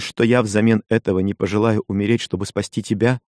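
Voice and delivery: lightly voiced young wife, hurt and reproachful; Kokua, a hint of a wife's reproach. Kokua's vow to save him. (лёгкий голос обиженной жены)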